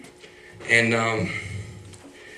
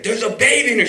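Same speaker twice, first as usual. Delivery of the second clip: retold scream; 11 semitones higher than usual. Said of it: "she's screaming".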